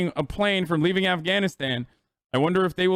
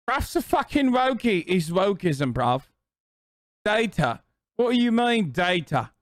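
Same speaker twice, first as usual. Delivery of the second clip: mock angry boomer; 3 semitones higher than usual. Mocking boomer tweet author.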